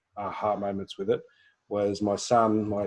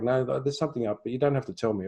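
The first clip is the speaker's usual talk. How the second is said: gentle new way; 3 semitones higher, faster than usual. Retold or imitated. Newer self gently telling son she'll listen, calm. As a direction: invite him gently. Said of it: "because I was like backing off".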